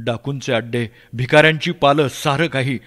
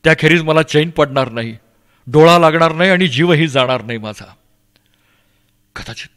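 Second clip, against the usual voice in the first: ordinary delivery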